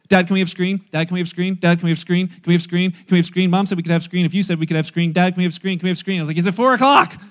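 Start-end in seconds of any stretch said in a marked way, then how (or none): 0.1-6.2 imitating a child nagging Dad, loud and relentless; annoying pestering. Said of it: "it sounds like this". 6.4-7.2 higher, loud mock exasperation; exasperated father. Pestered father snaps back.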